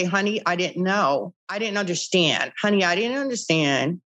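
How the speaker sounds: gentle, sorry tone to a husband; soft apologetic plea. Shown as a demonstration. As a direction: coax him softly, take the blame. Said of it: "I told her to say it like that".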